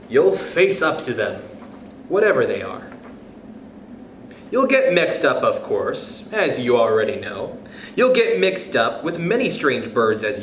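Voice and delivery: lilting, rhythmic picture-book read; reading aloud to kids. Acted. Reading Oh, the Places You'll Go to listeners, rhythmic storybook voice. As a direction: bounce through the rhymes like a bedtime story.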